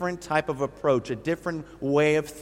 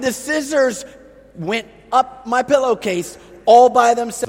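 higher, louder, laughing through it; amused at the excuse; father laughing at the scissors-did-it excuse; laughing disbelief; 8 semitones higher, 9 dB louder than usual. Retold or imitated. Laughing retort to the child.

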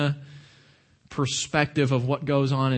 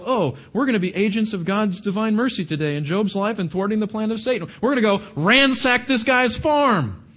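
mock pious raiders; 4 semitones higher than usual. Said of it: "Did the Sabaeans go".

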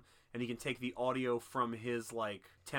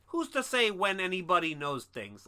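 higher, louder mock of a smug know-it-all; a hammed-up all-knowing blue god; Doctor Manhattan as Dennis Franz; 6 semitones higher, 6 dB louder than usual. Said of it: "scum rat".

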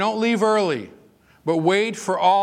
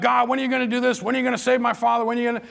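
higher, hurried retold plea to God; impatient pleading; 6 semitones higher, much faster than usual. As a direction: press God with repeated impatient questions. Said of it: "all this effort and, you know, energy".

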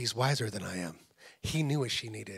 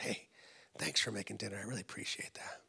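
soft, trailing into a whisper; retold whisper; 3 semitones lower, 8 dB quieter than usual. Husband thanking wife for making dinner, softly whispered. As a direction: lower the voice gently, nearly whispering by the end. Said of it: "and I just whispered".

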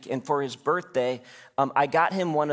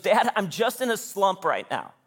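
mock sad kid; 5 semitones higher than usual. Son's voice retold.

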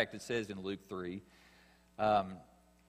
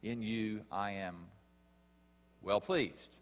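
authoritative voice of God; 8 dB louder, slower than usual. Acted. Preacher giving God's voice to the congregation, slow, loud and commanding. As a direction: proclaim it as the voice from heaven. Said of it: "This is an authoritative voice".

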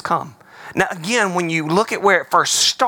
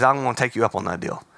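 voice of God; 7 semitones lower, 4 dB quieter, faster than usual. Retold or imitated.

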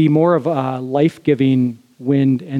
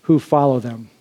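declaiming Solomon; 4 semitones higher than usual. Shown as a demonstration. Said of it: "he finishes with this".

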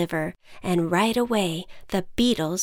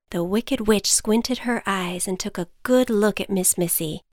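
ordinary delivery

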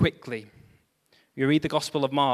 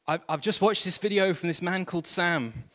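put-on woman's voice, pitched higher; imagined emailer's voice; 4 semitones higher than usual. Preacher voices a viewer's email to the church, imagined higher woman's voice. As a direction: lift into the voice you imagine for an email writer. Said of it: "I don't know if she sounds like this".

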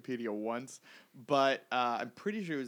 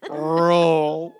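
loud laughing; 4 semitones higher, 16 dB louder than usual. Pretend. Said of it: "Roll your eyes more".

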